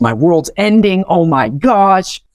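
mock despair over the wrecked car; panicked. Freshman after crashing the car, mock panic. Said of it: "I'm like".

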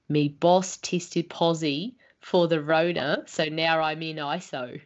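slow, broad Australian accent. Shown as a demonstration. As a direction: drag it out like a laid-back Aussie. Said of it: "An Australian might say".

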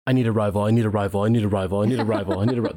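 mock obsessive chant, same tune each time; imagined inner monologue. Podcaster voices Josh's inner dialogue, mock fixated chanting. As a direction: loop it like a fixated thought. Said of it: "internal dialogue of Josh looking and going".

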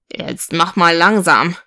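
a hint of a stern dad; lightly voiced fatherly warning; admonishing father. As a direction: gently rein in an eager child. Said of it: "mahnte der Vater".

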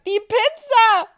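alarmed dad yelling about the pizza; dad shouting alarmed. Acted. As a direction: bellow it like a panicked father. Dad smells burning pizza.

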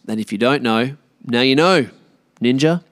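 a light nod to a rap line; a rapper's quote. Retold or imitated. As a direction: toss off a rapper's lyric with swagger. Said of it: "Shout out to my boy, Biggie Smalls".

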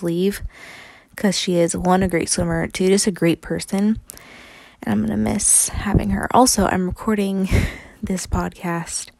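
talking with a retainer in; wearing a retainer. Real, not acted. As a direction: speak around a retainer. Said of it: "I have my retainer in, so I might sound weird".

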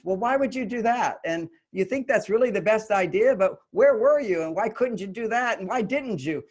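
interrogating. Retold or imitated. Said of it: "interrogating them".

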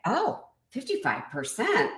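imitating an intrigued listener; open and curious. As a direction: play the audience perking up at a statistic. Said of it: "open and curious".

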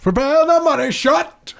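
a mock hype cry, pitched far up; squeaky exclaim. A buddy cheers his podcast co-host, squeaky and high. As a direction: shoot way up high and squeal the line.

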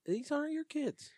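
high incredulous retort; mock indignation. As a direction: throw it back at her, outraged. Mocking the woman.

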